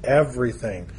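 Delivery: "everything" set apart, with a falling end; stress on everything. Real, not acted. Preacher singling out a scripture word, emphatic "everything". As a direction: land deliberately on "everything" as a word alone. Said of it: "I want to emphasize that word".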